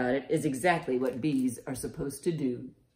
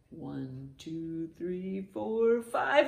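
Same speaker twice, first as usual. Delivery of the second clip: building count; 2 semitones higher, much slower than usual. Pretend. Counting bees out of the hive for children, rising excitement.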